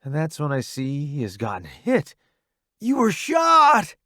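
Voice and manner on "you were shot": high, drawn-out cry; alarmed shout. A narrator's reading. Newbie seeing Roddy's wounded leg, alarmed shout. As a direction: exclaim it in alarm. Discovers friend has been hit.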